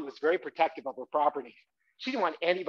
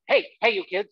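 mild angry homeowner yell; 3 semitones higher than usual. Shown as a demonstration. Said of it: "every time I run by".

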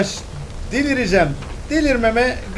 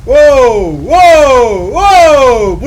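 amazed wows; 3 semitones higher, 11 dB louder, much slower than usual. Real, not acted. Amazed by game lightning.

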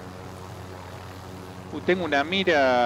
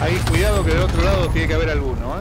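urgent warning shout; 3 semitones higher, 6 dB louder than usual. Real, not acted. Warning teammate in firefight.

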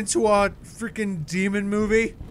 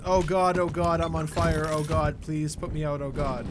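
mock burning victim. Gamer mocking the enemy's missed line, mildly acted panic. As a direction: ham up a hint of a man on fire. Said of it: "Your line is".

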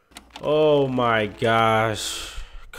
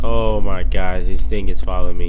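being chased; 4 semitones lower, 6 dB louder than usual. Real, not acted.

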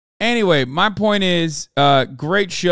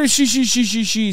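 light, higher mock giggle; imitated character laugh; 5 semitones higher than usual. Mocking the One Piece laughs to the viewers, light imitated giggle. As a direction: mimic the quirky anime laugh. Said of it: "unique laughter that certain characters have".

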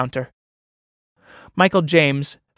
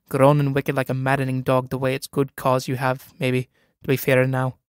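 soothing. Acted.

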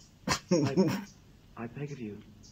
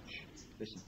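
hushed whisper; 11 dB quieter than usual. Real, not acted. Storyteller hushing the listeners before a tale, whispered. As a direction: hush them before the secret.

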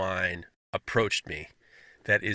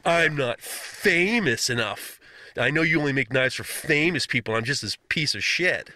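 passive aggressive mock. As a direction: drag out the fake humility, passive aggressive. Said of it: "very passive aggressive".

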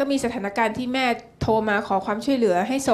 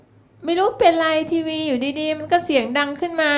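higher, laughing imitation of mom's excuse; mother's innocent excuse; 7 semitones higher than usual. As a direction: play mom feigning innocence, giggling. Daughter voices mother's excuse. (ลูกสาวเลียนเสียงแม่แก้ตัวแบบไร้เดียงสา หัวเราะไปด้วย)

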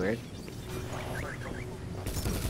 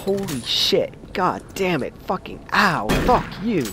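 startled; 6 semitones higher than usual. Real, not acted. Startled in horror game.

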